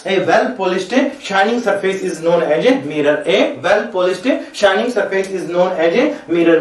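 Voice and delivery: words spaced out slowly for copying; slow dictation. Shown as a demonstration. Teacher defining a mirror for notes, slow dictation. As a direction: read it out so they can write.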